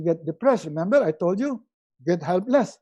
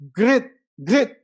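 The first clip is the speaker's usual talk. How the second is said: ordinary delivery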